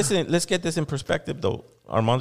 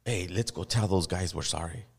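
lower, softer offhand Pope; mock Pope; 7 semitones lower, 5 dB quieter than usual. Host mocking the Pope's trip, lower softer mock voice. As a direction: toss it off casually. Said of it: "is going".

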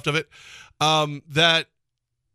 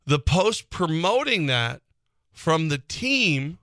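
normal talking voice

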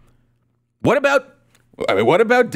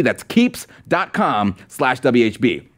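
slow, spelled-out URL; 5 semitones lower, slower than usual. Shown as a demonstration. Host repeating the sponsor address for viewers, slowly. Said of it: "repeating the sponsor URL".

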